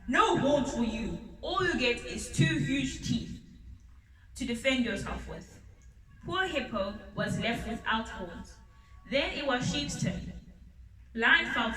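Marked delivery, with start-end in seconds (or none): 0.1-5.5 roar. Acted. Lion roaring at proud Hippo, angry. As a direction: bark the verdict at Hippo. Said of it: "roared Lion".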